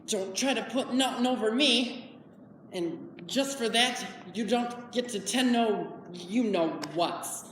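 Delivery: lightly voiced simple man, worrying aloud; halting, troubled country speech; Lenny. Man dreading his friend's scolding, worried. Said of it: "I will be performing Lenny from".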